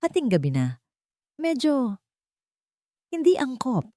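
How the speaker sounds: a hint of a careful, disapproving doctor aunt; Beatrice, concerned aunt. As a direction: gently raise a concern about the housekeeper. Narrator voices Beatrice, worried aunt.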